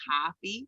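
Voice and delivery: "coffee" from the back of the throat, open ah vowel. Shown as a demonstration. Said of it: "it's, like, in the back of the thro".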